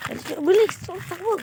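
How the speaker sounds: high, hurried calls while running. Real, not acted. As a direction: shout it on the run. Kids flee from the uncle.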